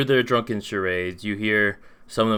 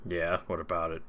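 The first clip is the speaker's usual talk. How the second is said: put-on drunken voice; 3 semitones lower, 7 dB quieter than usual. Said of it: "how to do a drunken voice".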